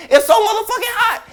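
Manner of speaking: laughing exasperation. Real, not acted. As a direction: crack up while saying it. Joking rant about heat.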